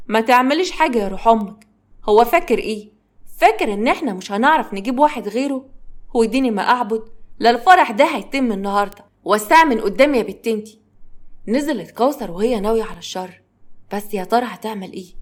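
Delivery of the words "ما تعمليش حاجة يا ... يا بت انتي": loud, furious mother snapping at her daughter; angry scolding. Acted. Mother scolding her daughter over the wedding, angry and loud. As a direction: bark it out, fed up and defiant.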